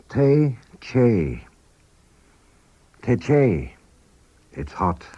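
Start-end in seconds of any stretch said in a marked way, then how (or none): 0.1-1.4 slow demo. Shown as a demonstration. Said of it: "First, slowly".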